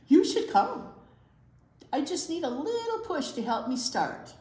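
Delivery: a lightly voiced proud snail, showing off; a hint of a vain French snail, pleased with itself. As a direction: play a self-admiring snail charmingly. Voicing the snail character.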